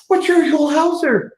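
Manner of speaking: high, slow amazed recognition; retold starstruck. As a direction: stretch it out in awe of the star. Recognising the celebrity.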